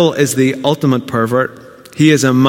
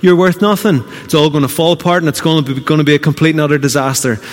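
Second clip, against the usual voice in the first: fast, higher jeering voice of the enemy; the accuser sneering, fast and raised; mock enemy taunt; 4 semitones higher, faster than usual. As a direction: taunt him quickly, pitched up. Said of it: "The enemy's coming along going".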